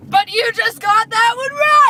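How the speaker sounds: loud high surprise reveal; excited shout. Acted. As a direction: flip it into a cheer. Host reveals trick win.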